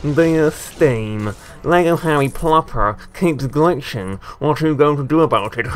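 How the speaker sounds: slowed, put-on letter-reading voice; mock complaint letter. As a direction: dictate a mock complaint to customer support. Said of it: "I'll be contacting Steam. I'll be like".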